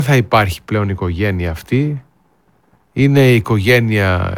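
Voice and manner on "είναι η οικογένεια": ordinary delivery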